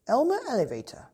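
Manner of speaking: high, loud scolding call of a name; stern mother calling out. Acted. Mother scolding her son by name, high and loud. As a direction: snap the boy's full name like a cross mother.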